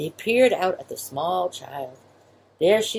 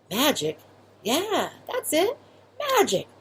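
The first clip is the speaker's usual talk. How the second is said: mild confused mouse; 10 semitones higher, slower than usual. Acted.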